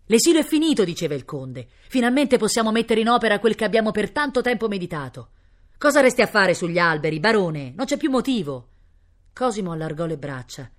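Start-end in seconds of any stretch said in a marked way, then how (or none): 0.1-0.8 high, loud announcement; triumphant proclamation. Acted. Count proclaims end of exile. 1.9-8.7 lightly voiced rousing nobleman; fervent count. Count urges the baron down.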